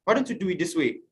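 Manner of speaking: soft, quiet gentle questions; gentle correction. Retold or imitated. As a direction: correct them kindly and softly. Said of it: "the normal way I would have reacted".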